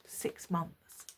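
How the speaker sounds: low, very soft answer; understated retold reply. Boyfriend admits how long it has been, low and quiet. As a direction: drop it quietly, almost under the breath.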